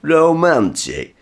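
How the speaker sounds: high, loud, slow scornful echo. Acted. Dad mocking mum's praise of Frenchmen, scornful echo. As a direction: throw the word back in disbelief. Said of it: "They're very romantic".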